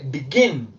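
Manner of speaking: "begin" with the second syllable stressed. Shown as a demonstration. Teacher shows learners where the accent goes, second syllable of "begin" stressed. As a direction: lean on the end of "begin". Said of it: "al ir el acento acá".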